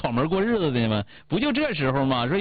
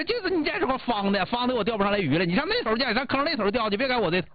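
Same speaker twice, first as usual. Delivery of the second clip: higher-pitched pretend nagging at a husband; mock scolding; 5 semitones higher than usual. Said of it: "完你钓不上来你就骂他".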